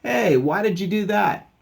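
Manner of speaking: high, loud indignant question; acted protest. Dog whose toy went overboard, high loud protest.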